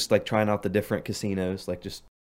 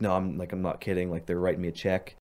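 stunned deadpan; 3 semitones lower, 5 dB quieter than usual. Retold or imitated. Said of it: "like, in shock or something".

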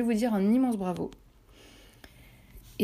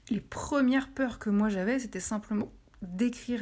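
talking through hiccups; holding back hiccups mid-sentence. Real, not acted. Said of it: "excusez-moi, j'ai le ok".

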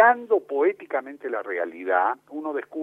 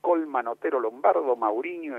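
reciting team lineup; 3 semitones lower than usual. Retold or imitated. A boy recites the lineup to please his father, eager. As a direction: rattle off the lineup like a proud boy. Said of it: "Yo le recitaba esto a mi viejo".

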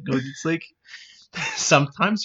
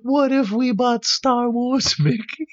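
higher dopey cartoon voice; higher goofy cartoon flunky voice; cartoon sidekick voice; 8 semitones higher than usual. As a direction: play the dim board member raising a hand. Member suggests purchase.

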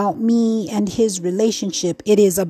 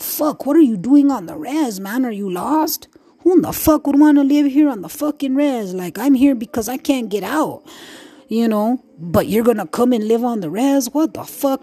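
imitating res locals; 2 semitones higher than usual. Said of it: "folks on the reservation that are like".

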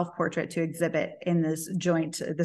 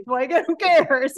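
laughing scoff; 9 semitones higher, 7 dB louder, slower than usual. Real, not acted. Mocking her own journal.

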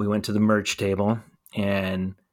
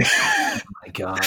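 shocked; much slower than usual. Real, not acted. Shocked at the band name.

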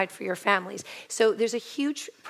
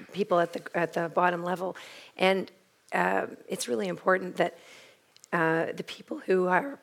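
hoarse, failing voice; pushing words through a lost voice; voice giving out. Real, not acted. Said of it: "sorry, I've lost my voice".

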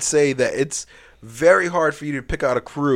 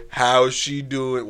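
grandma voice; 4 dB quieter, much slower than usual. Retold or imitated. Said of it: "your grandma's like".

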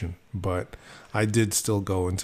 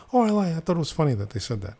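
daughter voice; 8 semitones higher, faster than usual. Retold or imitated.

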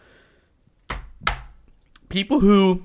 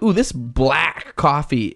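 mock coffee enthusiast; much slower than usual. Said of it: "people who are like".

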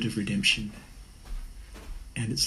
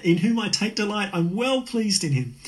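booming call from heaven; 11 semitones higher, 3 dB louder than usual. Retold or imitated. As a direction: call it out from the sky like a proud father. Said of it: "yells out".

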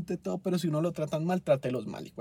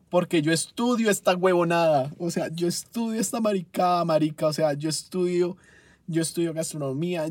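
loud, indignant rant, pitched up; worked-up rage; 3 semitones higher, 5 dB louder than usual. Real, not acted. Culinary student ranting about a botched restaurant order, angry. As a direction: hammer it out, outraged. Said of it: "nunca me habían sacado tanto la rabia".

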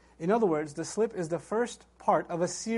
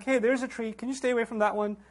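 light, softer mock-casual aside; chill, casual request; 2 semitones higher, 3 dB quieter than usual. God to Adam about the tree, chill and casual. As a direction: toss it off like no big deal. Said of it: "He seems pretty chill".

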